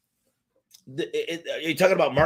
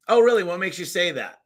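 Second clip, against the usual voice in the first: higher, louder mock-interested reply; curious follow-up question; 4 semitones higher, 4 dB louder than usual. Shown as a demonstration. Salesman showing how to question a customer, curious. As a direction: act out a probing "oh, really?".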